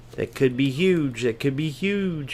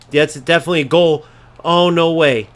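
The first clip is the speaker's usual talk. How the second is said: shocked disbelief; 5 semitones higher, 8 dB louder than usual. Real, not acted. Shock at a goal.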